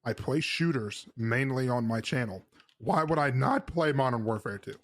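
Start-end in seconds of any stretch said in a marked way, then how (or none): 2.8-4.8 mock distressed voice crack. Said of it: "The voice crack was intentional. It was supposed to sound distressed".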